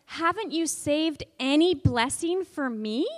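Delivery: put-on teacher demonstrating Esau's plea for children; pleading question. Shown as a demonstration. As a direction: ask it with hurt. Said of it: "Can you say that?".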